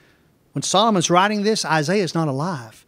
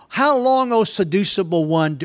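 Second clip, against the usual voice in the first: Wisdom calling out; 2 semitones higher than usual. Acted. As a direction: call the question out as Wisdom, then ease. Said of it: "wisdom shouts from the streets".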